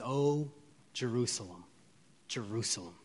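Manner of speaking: soft, aching repeat of the cry; grieving lament. Retold or imitated. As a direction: sigh the name out in sorrow. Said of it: "moved with compassion and sorrow".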